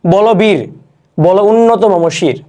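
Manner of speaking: slow, declaiming the line; slow rousing poetry reading; poem recitation. Shown as a demonstration. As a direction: recite it like a proud poem, slowly. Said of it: "আমাদের প্রথম লাইনটা".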